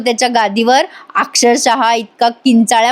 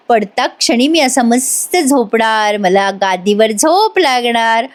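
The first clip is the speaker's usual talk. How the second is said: slow taunting; slower than usual. Retold or imitated. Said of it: "मुद्दाम करतोय हा कलाला डिवचायला".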